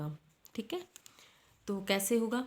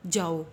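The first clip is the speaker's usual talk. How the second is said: जाओ said alone, loud, after a pause; loud separate जाओ; जाओ set apart; 3 semitones lower, 6 dB louder, slower than usual. Shown as a demonstration. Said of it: "मत के बाद comma लगाया". (अलग से ज़ोर देकर 'जाओ')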